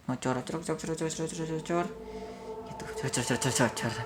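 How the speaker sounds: quick, soft gushing-water noise; imitated running water. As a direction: mimic water splashing out in repeated bursts.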